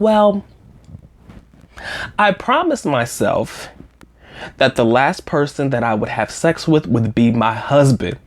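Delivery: slow, drawn-out pause before it; long pause. Retold or imitated. Quoting her blunt, slow answer about waiting for her husband, with a long pause. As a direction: hold the silence, then say it slowly. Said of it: "a long pause when she said this".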